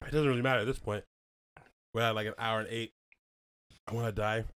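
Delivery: pained from hot sauce; mouth burning from spicy food. Real, not acted. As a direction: talk through burning lips. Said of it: "just pretend you're not hurting".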